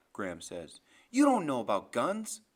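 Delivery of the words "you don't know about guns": loud, scornful objection; angry challenge. Acted. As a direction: challenge him loudly mid-quarrel. Graham challenges her husband.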